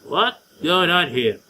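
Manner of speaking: slow, level try at the line; first voice attempt. Shown as a demonstration. Streamer testing a voice for the girl, slow trial read. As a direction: feel out the character's voice slowly. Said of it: "I want to give her a girly voice".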